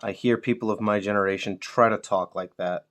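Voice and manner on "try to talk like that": "try" punched a little harder; stress on TRY. Real, not acted. Mocking peers who use young slang, stress on "try". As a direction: lean on the word "try". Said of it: "I do stress the word try".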